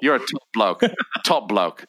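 broad Aussie mateship, hammed up; thick Australian. Host thanking his mate in the script, thick Australian. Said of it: "thickest, most unintelligible Australian".

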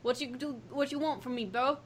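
lightly voiced bro talk; inner bro. Shown as a demonstration. Coaching a friend's Guido impression, casual bro voice. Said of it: "do your inner bro".

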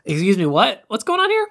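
a high, squeaky baffled question; mock confusion climbing far up. Nina and Malcolm baffled by the brainwashed Mrs Rosen, shrill confused asking. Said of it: "And they're just like".

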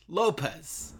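high, puzzled echo of the name; puzzled repeat. Retold or imitated. Tom repeating the non-Irish surname, mock puzzled and high. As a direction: echo it as if it makes no sense. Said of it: "And he goes".

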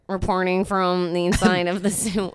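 robot voice. Pretend. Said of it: "why you have a robotic voice".

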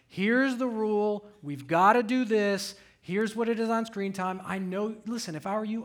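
retold firm dad talk, pitch lifted. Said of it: "I'm a little more animated now".

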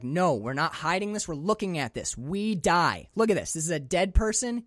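fired-up, rising to a loud, fast preachy rant; imitating a wild-eyed man shouting his gospel; building from eager to yelling; excited rant. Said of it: "He's like".

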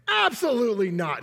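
toned-down mean rebuff; mean refusal. Retold or imitated. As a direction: imitate a mean, emphatic refusal. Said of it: "He said it a lot meaner than that".

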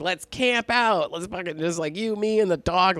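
high-pitched, eager re-enactment; retold excitement. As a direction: pitch the fun plan like a giddy suggestion.

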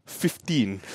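low, quiet, immovable counter-offer; hushed steel; steely confidence. Retold or imitated. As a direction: drop the price coolly, utterly sure of yourself. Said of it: "steel confidence".

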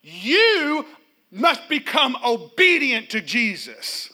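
preacher ordering a thought to obey Jesus; firm nope. Pretend. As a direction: shut the thought down hard. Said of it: "grab a hold of thoughts and say".

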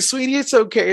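lightly voiced soothing reassurance; mock consoling. Customer comforting her mail carrier, mock consoling.

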